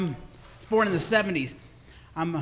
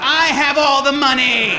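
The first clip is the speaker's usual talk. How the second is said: louder, laughing boast; laughing gleeful brag as mom; mock-proud mom, laughing; 5 semitones higher, 8 dB louder than usual. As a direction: crow about having all the money. Mom punchline, loud, laughing.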